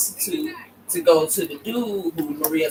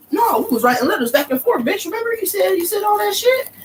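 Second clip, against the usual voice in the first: high, pushy mock voice, louder at the end; dude's accusing retort; 3 dB louder than usual. The dude calling Marie out before the king, high accusing mock voice. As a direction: throw the letters back in her face. Dude confronting queen with letters.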